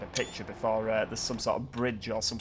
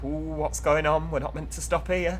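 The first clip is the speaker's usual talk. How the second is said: nosy passengers; 4 semitones higher than usual. Retold or imitated. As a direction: play a puzzled, nosy commuter. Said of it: "everyone's straight away".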